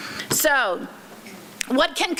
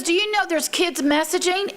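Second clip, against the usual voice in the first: put-on higher little girl voice; lightly voiced young niece; child voice; 6 semitones higher than usual.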